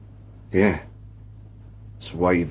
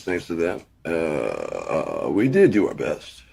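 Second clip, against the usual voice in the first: lightly voiced pilot on the intercom with hesitant uhs; mock captain announcement. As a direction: play a president as an airline captain, barely changed.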